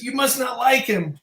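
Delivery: protesting driver. Retold or imitated. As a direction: imitate a wounded driver, drawn out.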